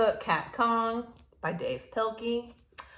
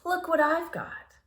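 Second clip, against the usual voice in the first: light shout; 8 semitones higher than usual. A narrator's reading. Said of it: "he shouted".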